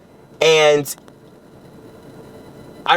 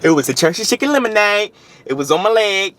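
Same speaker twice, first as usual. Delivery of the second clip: amused; 7 semitones higher than usual. Real, not acted. Lemonade turned out harmless.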